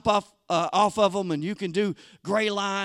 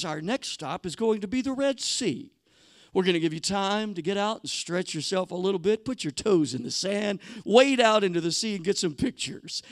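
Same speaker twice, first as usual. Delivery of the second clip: tour bus announcer; 4 dB quieter than usual. Retold or imitated. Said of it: "he says something like this".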